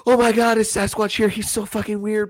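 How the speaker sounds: exaggerated high-voiced OMG reaction; mock excited squeal. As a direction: put on a high, hammed-up voice of a freaked-out date. Mocking his date's reaction to Sasquatch.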